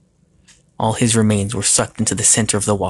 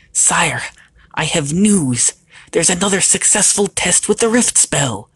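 high, urgent little goblin voice; high-pitched goblin messenger; small warty goblin; 8 semitones higher, 3 dB louder than usual. Acted. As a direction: pipe up as a small creature with an important message.

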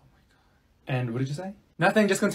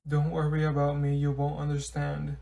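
mopey sad; 2 semitones lower, 5 dB quieter than usual. Acted. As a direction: drag each word like nothing matters. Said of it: "She looks so sad".

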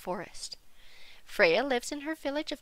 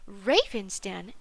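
ordinary delivery

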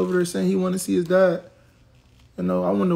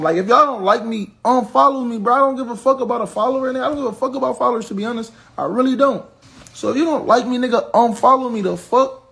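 raised, higher-pitched rant at the chat; heated rant; 3 semitones higher than usual. Real, not acted. Ranting at haters in chat.

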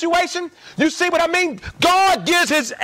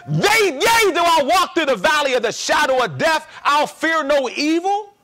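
quoting scripture. Retold or imitated. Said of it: "when he said".

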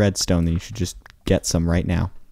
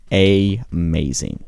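sarcastic; 3 dB louder, much slower than usual. Real, not acted. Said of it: "discovering something that's not new".

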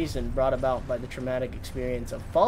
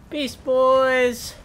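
excited cry; 10 semitones higher, 6 dB louder than usual. Pretend. Gasp then greeting the turtles.

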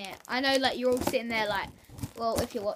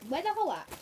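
helium voice; 7 semitones higher, 4 dB louder than usual. Real, not acted. Helium breathed in.

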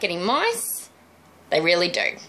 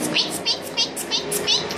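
very high, tiny squeaking mouse voice; mouse squeaks. Pretend. Finished balloon mouse squeaking for the viewers, very high squeaks. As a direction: squeak like a little toy mouse.

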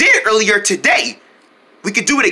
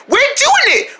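very high squeaky echo; excited little friend. Pretend. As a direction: pipe the cheer back in a tiny voice.

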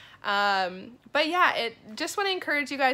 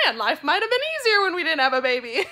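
laughing; 6 semitones higher, 9 dB louder, faster than usual. Pretend. Imagined sigh about life before baby.

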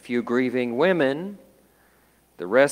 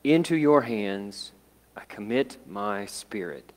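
loud cry, fading. Retold or imitated. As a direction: call out on Father, then fade away. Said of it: "he cried in a loud voice".

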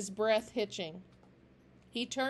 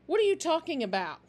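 angry snap; 7 semitones higher, 5 dB louder, faster than usual. A narrator's reading. Angry leader snaps.

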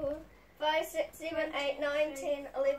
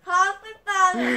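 cheeks stuffed full. Real, not acted. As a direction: mouth full of marshmallows. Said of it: "See, now it's better".

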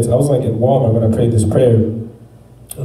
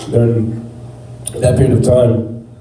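talking with a mouthful; words round a bite of food; mouth full. Real, not acted. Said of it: "sorry, I got food in my mouth".

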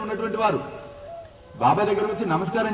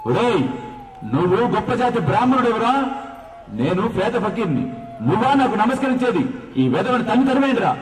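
mock rebuke, raised and sharp; retold angry shout; 3 semitones higher than usual. Baba scolds the proud Brahmin at his door, raised angry voice. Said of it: "బాబా గట్టిగా అరుస్తాడు".

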